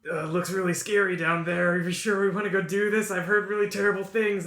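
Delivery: mildly worried orc, pitched a bit up; a touch of timid reluctance; nervous orc. Acted. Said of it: "half-orc that's afraid of everything".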